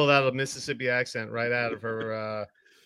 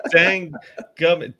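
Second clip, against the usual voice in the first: "Dang gummit" said through a laugh; giggling attempt at the word; laughing try; 4 semitones higher, 5 dB louder, slower than usual. Real, not acted. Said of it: "tries the word, laughing".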